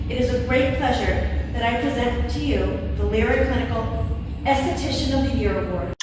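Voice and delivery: measured ceremonial presentation, pausing between phrases; formal award speech. Real, not acted. Presenting an esthetician's award to a colleague, formal speech. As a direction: present an honor in set phrases.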